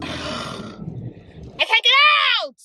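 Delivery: breathy, strained, high and slow; strained frustration. Real, not acted. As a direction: groan it out while straining. Stuck on ice, frustrated.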